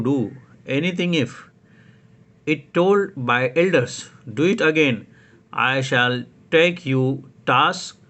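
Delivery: a lightly voiced elder scolding a child, slow and stern; scolding grown-up. Elder scolding a disobedient child, mild stern voice. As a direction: tell off a child who said no, deliberately. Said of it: "speech by a grown up".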